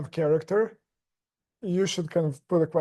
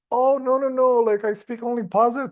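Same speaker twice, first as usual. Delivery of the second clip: high gushing voice; 6 semitones higher than usual. Retold or imitated. Retelling a friend's girlfriend's gushing.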